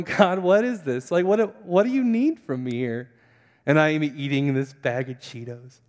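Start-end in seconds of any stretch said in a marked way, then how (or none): 0.0-3.1 raised, exasperated plea to God; retold prayer, demanding an answer; pleading prayer. Man eating Cheetos asks God what he wants, pleading. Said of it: "I'm praying and I'm going".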